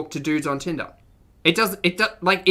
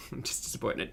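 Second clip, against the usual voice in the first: mock disappointed; 5 semitones lower, 13 dB quieter, faster than usual. Real, not acted. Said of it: "I'm not mad".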